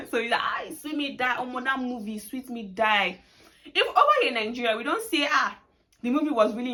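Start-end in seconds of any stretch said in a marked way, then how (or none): 0.4-1.4 emphatic exclaim. Shown as a demonstration. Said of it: "You're trying to place emphasis". 2.2-3.2 sweet me, die stretched out slowly; slow emphasis. Shown as a demonstration. Teacher showing how a Nigerian stresses a sweet movie, slowly. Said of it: "You're trying to place emphasis".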